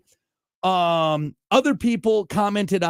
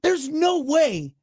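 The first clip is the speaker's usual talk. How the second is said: mock patriotic outrage; 4 semitones higher than usual. Host replaying his rant about Brits being funnier, mock outrage. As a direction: play the offended patriot, hammed-up.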